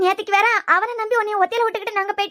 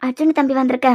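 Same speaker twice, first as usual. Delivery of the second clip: put-on older helper woman; 6 semitones lower than usual. Helper calls Dhiya again.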